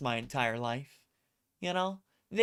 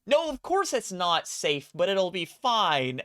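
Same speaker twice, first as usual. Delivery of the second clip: higher, offhand, unbothered; breezy dismissal; 4 semitones higher, 4 dB louder than usual. Retold or imitated. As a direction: laugh off the obvious risk.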